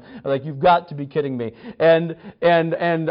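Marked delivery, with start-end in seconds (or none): 0.4-1.5 mildly exasperated, at full voice; retold exasperation. Retelling his anger at the friend, mildly exasperated. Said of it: "I was so mad at him".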